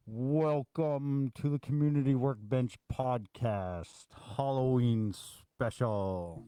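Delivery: slow spooky voice through hands; creepy voice. Pretend. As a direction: drag it out like a haunted host. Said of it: "Did I do a creepy enough voice".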